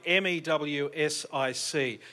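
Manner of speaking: M E W S I C spelled slowly, letter by letter; spelling the foundation's name for the crowd, letter by letter. Shown as a demonstration. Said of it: "Music spelt".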